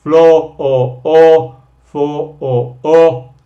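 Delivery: "Floor o o" slow and loud, the o drawn out; stretched vowel. Shown as a demonstration. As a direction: lean on the o of "for o o". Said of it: "va con el floor".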